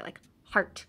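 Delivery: heart with the jaw dropped as for a hamburger; wide-mouthed heart. Shown as a demonstration. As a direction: open wide on heart like a big bite. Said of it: "eat, like, a hamburger".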